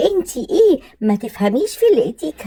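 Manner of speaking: scornful laughing jab; mocking laugh. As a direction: laugh her off as ignorant. Mock-laughing insult in quarrel.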